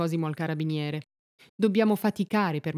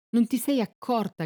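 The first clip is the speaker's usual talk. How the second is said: higher, restrained narrator's shout; mildly raised, accusing voice; shouted question; 6 semitones higher, 3 dB louder than usual. A narrator's reading. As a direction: read a cry out without full force. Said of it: "gridò il carabiniere".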